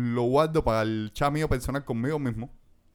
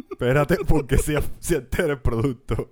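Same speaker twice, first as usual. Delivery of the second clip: insistent objection; 3 dB louder than usual. Real, not acted. Insisting, louder.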